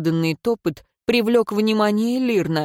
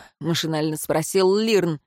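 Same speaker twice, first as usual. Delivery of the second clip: usual speaking voice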